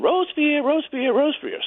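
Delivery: high sing-song calling of the duckling's name; mother duck calling. Retold or imitated. Mother duck calling for her lost duckling, high sing-song call. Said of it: "The mother's counting".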